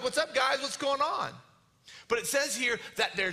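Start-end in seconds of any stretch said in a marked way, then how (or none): 0.0-1.3 higher, casual passing greeting; breezy Jesus. Acted. Jesus cruising by the frightened disciples, mock casual. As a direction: say hi as you cruise by. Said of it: "just cruising by".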